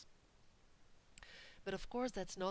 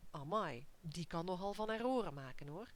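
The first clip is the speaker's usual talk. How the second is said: raised-eyebrow gossip; 4 dB louder than usual. Acted. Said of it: "raise your eyebrows and say to your partner".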